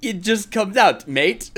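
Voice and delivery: put-on slow it into a teasing Australian accent; mock Australian accent. Co-host teasing about accents, in mock Australian. Mimics co-host's accident accents, "mate.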